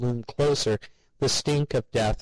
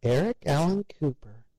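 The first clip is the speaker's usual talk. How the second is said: sharp scolding full name, pitched up; angry mother; 6 semitones higher than usual. A narrator's reading. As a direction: call him out by his full name. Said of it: "Mother's expression became angry".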